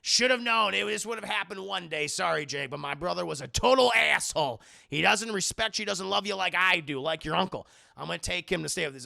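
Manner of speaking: loud blustering uncle. Retold or imitated. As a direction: bluster about the dead brother. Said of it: "And he goes".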